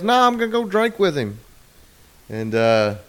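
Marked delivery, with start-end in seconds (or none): 0.0-1.4 put-on much higher childish refusal; mock stubborn husband.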